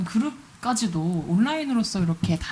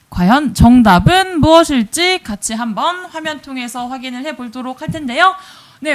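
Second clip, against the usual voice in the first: upbeat quiz host announcing; game show host. Acted. Hosts OX quiz results.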